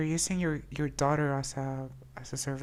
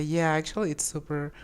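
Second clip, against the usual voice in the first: reading option, amused. Real, not acted. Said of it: "Or we can say".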